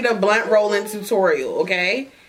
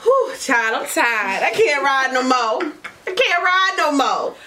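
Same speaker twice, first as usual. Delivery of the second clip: mock exhausted complaint; 6 semitones higher, slower than usual. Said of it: "We be like".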